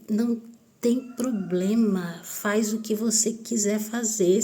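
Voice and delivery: slow, stretched-out "go ahead"; defiant dismissal. Retold or imitated. Answering the niece's threat, slow defiant indifference. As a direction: draw out each phrase, daring the other person.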